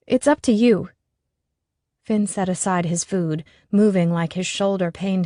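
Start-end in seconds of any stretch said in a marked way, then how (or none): 0.1-0.9 flustered. A narrator's reading.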